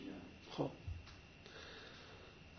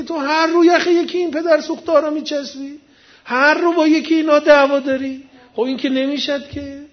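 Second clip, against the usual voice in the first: higher, exasperated mock reproach; acted scolding; 6 semitones higher than usual. Moses rebukes the man for picking quarrels, acted exasperation. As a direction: reproach him in a raised pitch, playing Moses.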